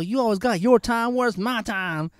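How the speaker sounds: high mock nagging; lightly hammed whining wife; whiny wife. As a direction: complain like the wife. Wife voiced in story.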